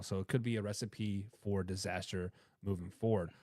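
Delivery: normal talking voice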